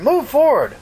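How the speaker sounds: high-pitched urgent repeat, stress on "move"; repeated radio order. Retold or imitated. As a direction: call it again, punching "move". Son shouts order into radio.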